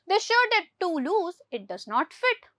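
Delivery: very slow, word by word, for the class; slow dictation. Shown as a demonstration. Teacher reads the English example to pupils very slowly. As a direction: spell out every word for Hindi-speaking pupils. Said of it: "teacher reads example sentence again".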